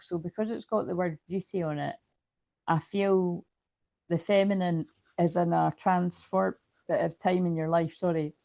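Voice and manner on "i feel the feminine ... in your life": talking through hiccups; hiccuping. Real, not acted. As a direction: hiccups breaking the words. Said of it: "I've got the hiccups, I can't stop".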